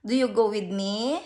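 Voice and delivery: mother lightly voicing her crying daughter, slow; a hint of a small child begging through tears; slow, pleading little girl's voice; crying child's plea.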